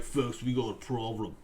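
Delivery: low, gruff Butcher voice; menacing Butcher. Retold or imitated. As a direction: growl it like Butcher. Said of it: "that's my Butcher voice".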